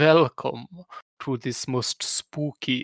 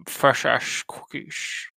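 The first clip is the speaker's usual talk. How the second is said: bad Sean Connery; 5 dB quieter, slower than usual. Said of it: "I'm doing a bad Sean Connery".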